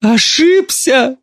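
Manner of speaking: high, slow tearful wail; mother wailing at her daughter. Acted. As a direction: wail the word out. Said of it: "ревела мать".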